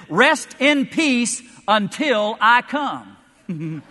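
slow, loud, laughing through it; drawn-out laughing punchline. Acted. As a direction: savor the punchline.

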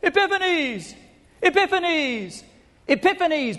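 high, loud acclaiming cry; high ringing crowd chant of praise. Retold or imitated. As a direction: hail him like a god, crying out loud. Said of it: "demanded that people cry out".

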